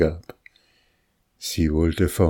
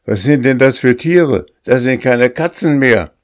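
higher, louder, frightened outburst; agitated alarm; 7 semitones higher, 6 dB louder than usual. A narrator's reading. Master to the housekeeper about the growing cats, frightened loud outburst. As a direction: blurt it out in alarm.

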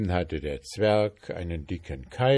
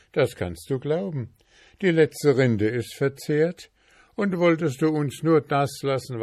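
pleading journeyman; 3 semitones higher than usual. Acted. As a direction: coax the dwarf politely for food.

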